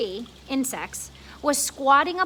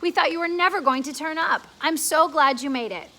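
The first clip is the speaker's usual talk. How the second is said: glad grasshopper; 4 semitones higher, 5 dB louder than usual. Acted. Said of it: "the old green grasshopper said".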